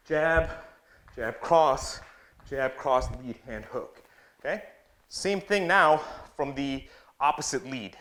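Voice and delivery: rhythmic punchy combo calls; boxing coach calling combos. Acted. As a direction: bark out each punch in time.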